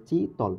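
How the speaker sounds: "চিতল" in two beats, চি, তল; split into syllables. Shown as a demonstration. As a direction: pause between চি and তল in "চিতল". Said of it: "চিতলের ভিতরে আছে দুইটা".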